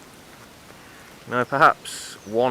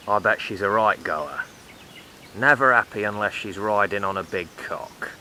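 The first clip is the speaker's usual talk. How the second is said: loud leering builder. Retold or imitated. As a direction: call it out across the site like a crude builder. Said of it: "talking like this".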